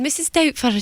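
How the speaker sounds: high mock Scottish accent; Missus Doubtfire. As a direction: lightly imitate a Scottish lady. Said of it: "talks like that 'cause it's from Scotland".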